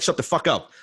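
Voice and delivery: high, retold exasperated outburst; annoyed rebuke.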